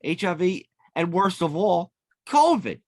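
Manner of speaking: high loud furious yelling; furious accusation. Retold or imitated. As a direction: yell it at her accusingly.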